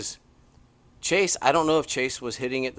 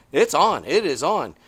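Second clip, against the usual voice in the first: excited; 4 semitones higher, 9 dB louder than usual. Real, not acted. Hyped race recap.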